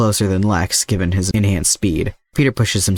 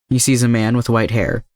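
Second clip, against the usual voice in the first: usual speaking voice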